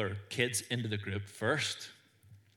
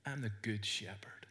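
hushed reading; 8 dB quieter than usual. Acted. Reading Jesus' words, hushed.

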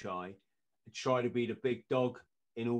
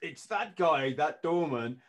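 surprised recognition; 3 semitones higher, 3 dB louder, slower than usual. Retold or imitated. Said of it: "look of surprise".

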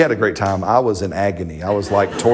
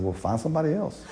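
laughing retort; 5 semitones higher, 10 dB quieter, faster than usual. Retold or imitated. Quoting himself to his wife.

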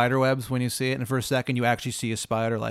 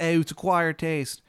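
slow Maryland twang, pitched up; Baba Yaga; 4 semitones higher, slower than usual. Acted. Baba Yaga offering Old Bay seasoning, slow Maryland accent. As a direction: drawl it in a bad Maryland accent. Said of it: "She's got the shittiest Maryland accent".

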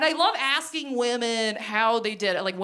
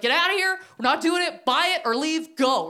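angry manager; 5 semitones higher than usual. Retold or imitated. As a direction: shoo the customer out fast. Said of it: "She's like".

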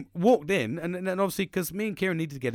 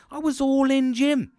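loud, high-pitched burst of enthusiasm; excited; 11 semitones higher, 8 dB louder than usual. Real, not acted. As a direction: shout it out, fully carried away. Reliving his leaf-blower excitement.

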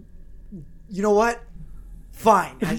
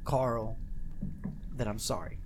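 grudging mumble; 7 semitones lower, 10 dB quieter than usual. Acted. Levi grudging apology, sulking.

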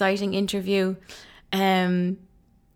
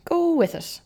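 bright high-pitched repeat, playful; high sing-song echo; 9 semitones higher than usual. Real, not acted. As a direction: toss it off high and breezy. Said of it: "I'm just gonna go with it".

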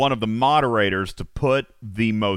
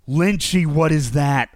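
ordinary delivery

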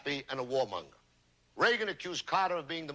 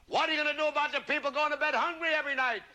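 heckler shout; 8 semitones higher, faster than usual. Retold or imitated. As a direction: shout it out from the crowd. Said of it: "One man shouted to Carter".

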